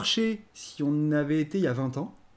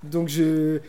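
worked up; 3 semitones higher, 5 dB louder than usual. Real, not acted. Co-host arguing over a comic he disliked, worked up. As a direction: argue heatedly, pushing the point. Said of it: "calme-toi".

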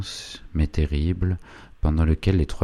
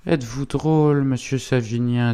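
lightly voiced indignant wife, higher; sharp-tongued wife; 9 semitones higher than usual. Wife rebuffs the young gentleman's question, indignant higher voice. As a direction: play the wife scoffing at the visitor.

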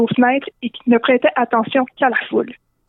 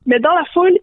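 ordinary delivery, nothing marked

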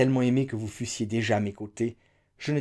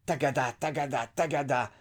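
galloping tagada; 3 semitones higher than usual. A narrator's reading. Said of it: "ses onomatopées glabissantes".

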